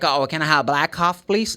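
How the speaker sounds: black coffee run together, the k dropped; natural linked order. Shown as a demonstration. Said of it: "This black becomes blah".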